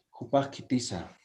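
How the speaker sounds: Kupaj kitiza said quiet and level, no rise; flat dry question. Shown as a demonstration. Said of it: "de forma seco". (pregunta seca y plana)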